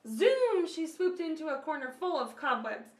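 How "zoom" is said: loud high whoosh of a word; loud zoom. A narrator's reading. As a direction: shout it like a dive. Sound word as bird dives.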